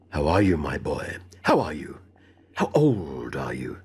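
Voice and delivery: a lightly voiced elderly host, fussing with delight; deep gushing old bachelor; old gentleman's greeting. Mr Abney greets his cousin.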